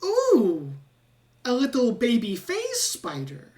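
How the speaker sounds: high, fascinated rat voice, slowing to admire; curious rat scientist. Acted. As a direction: coo over a well-behaved spider. Rat admires the baby spider.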